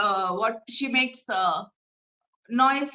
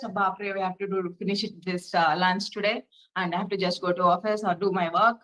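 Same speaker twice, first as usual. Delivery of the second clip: hurried, muttered stressed self-talk, rushed at the end; lightly voiced harried cook, rushing to the office; 4 semitones lower, faster than usual. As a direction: mimic a frazzled person racing through chores. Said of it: "in this stressful manner".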